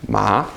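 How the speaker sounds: "Ma" starting low and sliding up; rising tone. Shown as a demonstration. Teacher showing the second tone, voice going up. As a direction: lift "Ma" upward like a surprised question. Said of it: "Your voice goes up".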